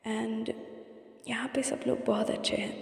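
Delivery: whispered, softly; hushed whisper. Acted. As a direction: whisper it like a secret diary entry. Private diary-like confession, hushed. (धीमी फुसफुसाहट में)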